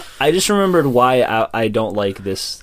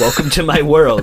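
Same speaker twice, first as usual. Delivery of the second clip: laughing; 4 semitones higher, 5 dB louder than usual. Real, not acted. Laughs through line.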